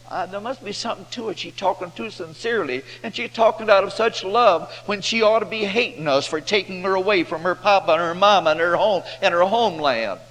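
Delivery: a hint of an amazed Syrian wife; the wife's voice. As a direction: lightly play the wife, marvelling at her maid's love.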